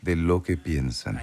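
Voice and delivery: soft and slow, trailing low; slow it down and let it fall to a soft hush; quiet slow promise. Retold or imitated. The Lord promising to come soon, soft and slow.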